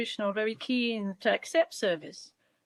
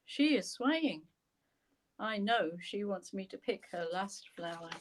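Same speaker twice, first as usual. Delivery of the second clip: measured poetry recital with long pauses; poem reading. A narrator's reading. Poet reads the park poem to the host, measured recital. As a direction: read your poem aloud, line by measured line.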